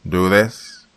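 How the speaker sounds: chuckling cruelly; sadistic chuckle. Acted. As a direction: finish the line with a cruel chuckle. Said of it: "through a sadistic chuckle".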